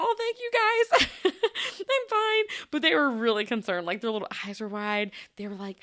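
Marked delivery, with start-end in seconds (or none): 0.0-2.4 high and loud, slow, laughing through it; laughing reassurance. Retold or imitated. Teacher reassuring worried kindergartners, laughing. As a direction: laugh it off for the kids. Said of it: "I was like".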